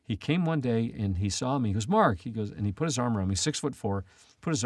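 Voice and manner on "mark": higher, louder call of the name; retold calling out. Mentor greeting the student he came to see, calling out. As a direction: hail a friend you have just spotted. Mentor calls out on seeing him.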